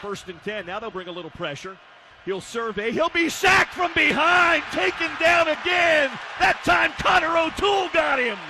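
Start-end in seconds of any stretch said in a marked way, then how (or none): 2.9-8.4 excited sack call. Real, not acted. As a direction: jump into a raised, emphatic voice. Calling a sack.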